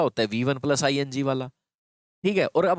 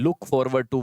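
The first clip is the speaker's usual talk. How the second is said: slow teaching stress; much slower than usual. Shown as a demonstration. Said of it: "सबसे important तो ये भाई".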